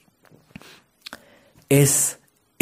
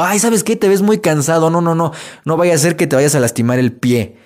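witch voice; 2 semitones higher than usual. Acted. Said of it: "Llega la bruja y te dice".

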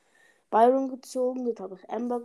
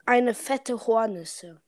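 slower, louder, clearly spelled out; slow and clear for listener; 4 dB louder, slower than usual. Real, not acted. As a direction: repeat it slowly so they catch it. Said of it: "Eine was?".

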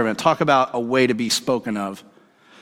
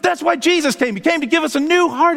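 high, fervent retold proclamation; impassioned answer; 12 semitones higher than usual. Preacher giving his friend the gospel, impassioned. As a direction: proclaim it with rising zeal.

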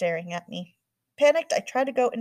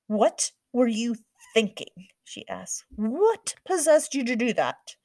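furious mom; 3 semitones higher, 3 dB louder than usual. A narrator's reading. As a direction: scold your daughter hard.

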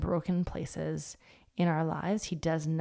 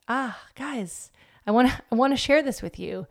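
put-on higher, louder call after kids; 5 semitones higher, 4 dB louder than usual. Mom calling after kids who ran off, pleading. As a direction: call them back before they run off. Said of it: "And I'm like".

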